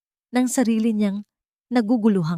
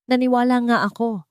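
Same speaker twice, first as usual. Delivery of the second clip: loud, higher shout; a louder, higher shout of betrayal; shouted back; 6 semitones higher, 4 dB louder than usual. A narrator's reading. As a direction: yell it back in hurt anger. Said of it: "sigaw pabalik ni Henrique".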